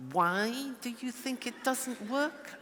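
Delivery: slow, pointed accusing question; the jackal's suspicious way of asking; wrong jackal way. Shown as a demonstration. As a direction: ask it as a challenge, not curious. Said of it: "Not like that, no, no, no, 'cause that's jackal".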